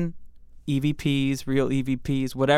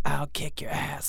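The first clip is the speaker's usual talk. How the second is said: spooky ghost voice; 6 dB quieter than usual. Acted. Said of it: "Or D".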